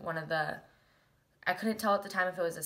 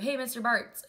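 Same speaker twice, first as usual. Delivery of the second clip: mild mock yell, pitched up; retold calling out; 5 semitones higher, 4 dB louder than usual. Student calling to teacher in the wreckage, mild retold yell. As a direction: call the name higher, without fully screaming. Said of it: "And I, like, screamed it".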